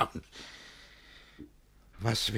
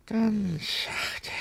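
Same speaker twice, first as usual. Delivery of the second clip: ganz sachte much higher, sing-song; lilting; 11 semitones higher than usual. Acted. Master coaxing himself calm, high sing-song ganz sachte.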